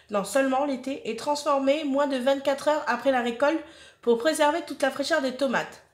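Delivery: even, promotional reading voice; product blurb read-out. Acted. Reading a tomato sauce maker's story to viewers, blurb read-out. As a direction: read the company history off the leaflet.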